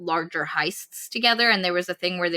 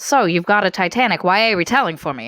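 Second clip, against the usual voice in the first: put-on old-timey producer voice; 3 semitones lower, 5 dB louder, faster than usual. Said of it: "just do your old-timey, uh, voice".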